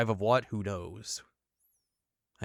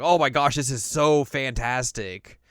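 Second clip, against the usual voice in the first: delighted gush; 3 semitones higher, 6 dB louder, slower than usual. Retold or imitated. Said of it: "they're like".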